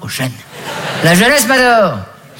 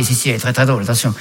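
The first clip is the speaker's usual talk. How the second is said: grudging praise; 5 semitones lower than usual. Acted. Grudging praise of rival comic.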